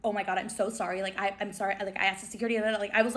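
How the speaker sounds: soft, stumbling retold sorry; fumbling apology. Flustered fan apologizing to the celebrity, soft fumbling. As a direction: fumble meekly over the words, voice dropped. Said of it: "fumbling over my words".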